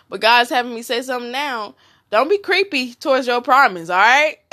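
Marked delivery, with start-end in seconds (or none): 2.1-4.4 laughing. Real, not acted. Laughing while preaching.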